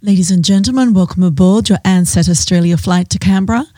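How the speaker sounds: smooth cabin PA delivery; flight attendant announcement. Shown as a demonstration. Former hostess performs her old boarding announcement, practised PA voice. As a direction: welcome passengers over the PA, measured. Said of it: "Okay, I'll try a little bit".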